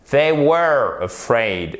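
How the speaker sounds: "They were afraid" slow, each word set apart; detached words. Shown as a demonstration. Teacher showing learners to detach words, slow and deliberate. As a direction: separate and fully sound "They", "were", "afraid". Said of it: "Vous détachez bien les mots".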